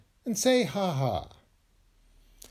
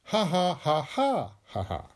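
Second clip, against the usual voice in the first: forced laugh. Shown as a demonstration. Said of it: "Or, if you must".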